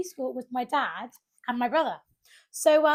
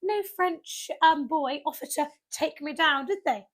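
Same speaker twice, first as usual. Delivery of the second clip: mock indignation; 5 semitones higher, 4 dB louder than usual. Mock complaint about no rescuer.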